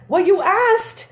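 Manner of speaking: high, laughing mom voice; mom voiced. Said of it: "And she's like".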